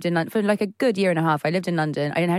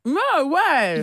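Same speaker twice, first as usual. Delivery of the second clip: talking through brownie; no way with a mouthful; mouth full; 7 semitones higher than usual. Real, not acted. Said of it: "I've got a mouthful of brownie".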